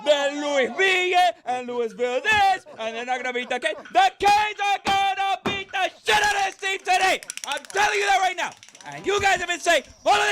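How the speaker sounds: indignant rant. Real, not acted. Guest bursts in shouting indignantly.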